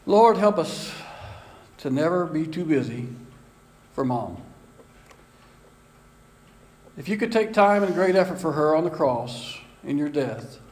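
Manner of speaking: a hushed, earnest closing prayer voice. Acted. Pastor leads the church in prayer for mothers, earnest and hushed.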